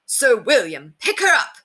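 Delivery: warning shout that leaps up high; alarmed call, rising sharply in pitch; urgent cry. A narrator's reading. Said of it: "cried the voice in his belt pack".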